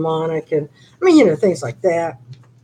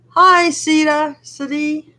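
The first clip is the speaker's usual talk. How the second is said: higher, slow, excited hello to a viewer; bright greeting; 10 semitones higher, 3 dB louder, slower than usual. Real, not acted. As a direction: call out a welcome to a live viewer.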